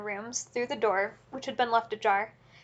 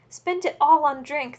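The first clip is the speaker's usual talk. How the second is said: higher, louder and slow, in despair; despairing cry; 5 semitones higher, 6 dB louder, slower than usual. A narrator's reading. Wife cries in despair at the drink, higher and slow. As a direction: wail the loss. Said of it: "the poor woman cried in despair".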